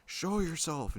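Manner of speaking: loud, high acted order; investigator's command. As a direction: call it out as a re-enacted challenge to a spirit. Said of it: "and then he was like".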